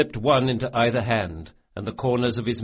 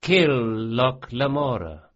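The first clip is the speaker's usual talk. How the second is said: cold kill order; 3 semitones higher, 4 dB louder than usual. A narrator's reading. Bonds mage orders Jean to kill Locke, loud and cold. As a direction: order the killing with relish.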